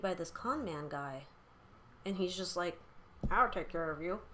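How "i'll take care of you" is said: lightly voiced con man in a mock Sling Blade accent; pseudo Sling Blade accent. Con man luring the sad girl, hint of Sling Blade accent. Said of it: "pseudo Sing Blade accent".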